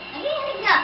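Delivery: trembling with cold; shivering. Real, not acted. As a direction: say it while shaking all over. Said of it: "Nangangatog nga".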